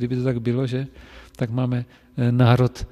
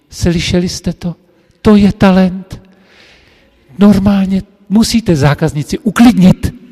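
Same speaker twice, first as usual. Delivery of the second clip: mock delighted praise; 5 semitones higher, 9 dB louder than usual. Mistress showing off the apprentice to the girls, delighted. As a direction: announce his talent to the class in a lifted voice.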